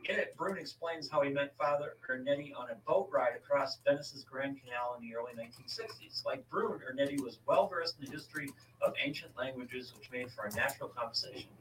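article read out to a co-host; reading aloud. Real, not acted. Host tells co-host who built the chronovisor, reading aloud. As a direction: read it from the page, steady and informative.

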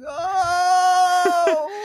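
high shouted "Oh" as the grandmother; old grandma exclamation. Retold or imitated. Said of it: "And she'd be like".

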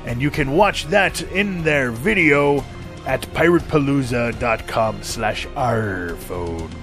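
pitchman selling a pirate phone; upbeat commercial read. Acted.

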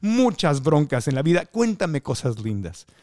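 steer back to pretty things, sweetly; lightly voiced doting actress; imitating a well-known singer-actress. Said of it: "Decía".

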